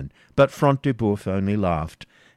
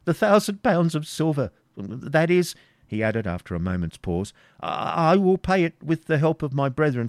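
put-on higher, anxious stammering old man; fearful Isaac; 6 semitones higher than usual. Isaac promising the ransom to the Baron. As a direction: beg haltingly.

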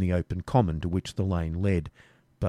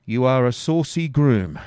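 higher, slow scorn; scornful robber; 4 semitones higher, 5 dB louder than usual. Acted. Robber scolds saucy Garth, higher and slow. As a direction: sneer at his cheek. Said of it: "said the robber".

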